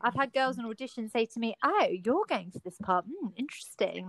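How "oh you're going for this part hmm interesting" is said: put-on catty audition girl. Girl sizing up a rival at auditions, catty. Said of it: "they are the cattiest".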